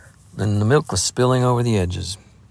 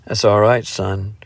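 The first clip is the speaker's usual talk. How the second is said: gentle, reassuring, settling down; kindly. Acted. Adam soothing the flustered lad, kindly. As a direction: ease the boy's embarrassment. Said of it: "put in Adam kindly".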